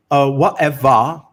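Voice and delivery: slow, drawn-out reality-TV "Whatever"; Paris Hilton drawl. Retold or imitated. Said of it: "this shitty way of talking".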